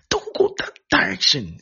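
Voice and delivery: acted shout to turn someone back; urgent warning. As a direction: warn them off forcefully. Preacher acts out a warning.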